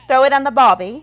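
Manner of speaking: loud, hammed-up Australian accent. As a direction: joke Australian catchphrase, called out. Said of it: "tourists come in from Australia".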